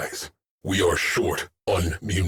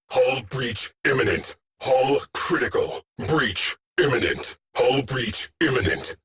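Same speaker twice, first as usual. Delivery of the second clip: higher-pitched, controlled emergency callouts; urgent alarm; 3 semitones higher than usual. Acted. Officer warning crew the hull is failing, urgent alarm. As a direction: sound the alarm with mounting urgency, still in command.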